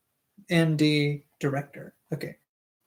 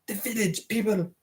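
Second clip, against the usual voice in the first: amused aside; 3 semitones higher, 6 dB quieter than usual. Acted. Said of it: "why did I say it like that".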